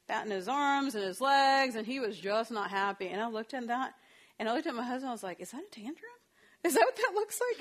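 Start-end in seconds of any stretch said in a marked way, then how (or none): 5.4-7.6 retold surprised question, much higher and louder at the end; stunned disbelief. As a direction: ask it as if you can't believe what you're seeing. Retelling her shocked question to husband.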